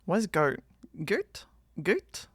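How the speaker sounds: New Zealand accent. Shown as a demonstration. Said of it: "as a New Zealander".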